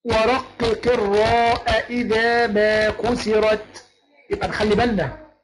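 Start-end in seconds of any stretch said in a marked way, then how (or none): 0.0-3.9 slow chanted reading of the poem line; measured tajweed chant; verse recitation. Shown as a demonstration. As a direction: recite the verse slowly, drawing out each word. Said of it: "الأبيات بتقول".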